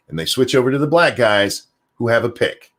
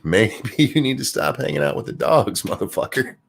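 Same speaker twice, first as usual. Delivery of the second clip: laughing tease; 4 semitones higher than usual. Real, not acted. Teasing Waz while laughing.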